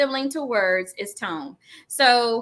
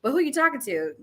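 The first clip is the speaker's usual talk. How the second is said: a hint of a firm parent warning; stern parent. Father warning his kids to check their tone, firmly. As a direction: put the kid in their place. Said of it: "I say that to my kids".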